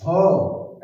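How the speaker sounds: "हो" as one syllable with H sounded; isolated HO sound. Shown as a demonstration. Teacher isolating hotel's first sound, H pronounced. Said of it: "एच की जो है sound हो रहा है".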